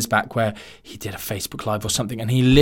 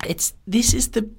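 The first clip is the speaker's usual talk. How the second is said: whisper; 8 semitones higher than usual. Real, not acted.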